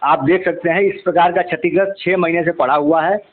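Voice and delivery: measured reporter's piece to camera; news report. Acted. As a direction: report to camera, steady and serious. (TV reporter का गंभीर अंदाज़)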